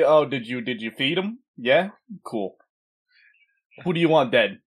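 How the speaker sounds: tough Brooklyn mobster voice; Brooklyn accent. Acted. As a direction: talk like a Brooklyn wiseguy. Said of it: "he got a whole Brooklyn accent going on too".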